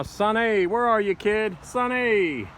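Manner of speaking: loud call across the yard; shouting up to balcony. Real, not acted. Calling for kid Sonny.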